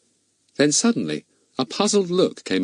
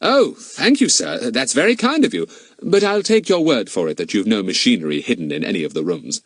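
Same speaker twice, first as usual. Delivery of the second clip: a hint of an eager boy; Fatty, polite boy. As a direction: thank him courteously, then settle. Fatty politely thanks the owner.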